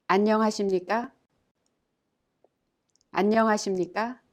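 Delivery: 안녕하십니까 said quickly with a rising end; formal greeting demo. Shown as a demonstration. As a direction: model 안녕하십니까 politely. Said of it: "A more formal way of greeting".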